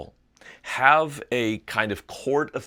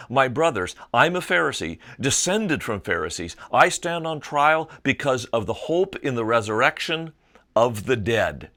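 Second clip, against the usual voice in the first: louder, raised proclamation to the council; Paul calling out to the Sanhedrin; called out; 4 dB louder than usual. Acted. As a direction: call it out across a packed hall. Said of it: "called out in the Sanhedrin".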